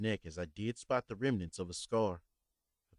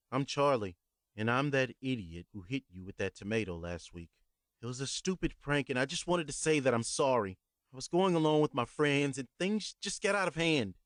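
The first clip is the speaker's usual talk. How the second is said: higher, earnest rushed apology; nervous young man apologizing; 5 semitones higher, 3 dB louder than usual. Acted. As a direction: blurt out the confession to the old man. Young narrator voices his apology.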